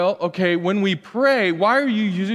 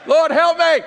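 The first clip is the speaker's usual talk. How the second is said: desperate cry to God; 10 semitones higher, 7 dB louder than usual. Retold or imitated. Desperate prayer for a place.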